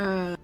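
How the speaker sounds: awkward nervous laugh; sheepish little laugh; uncomfortable laugh. Acted. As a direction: laugh it off, embarrassed. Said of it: "laughed uncomfortably".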